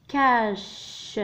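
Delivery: كاش stretched out very slowly; very slow teaching read of كاش; slow spelled-out word. Shown as a demonstration. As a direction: draw كاش out for the class.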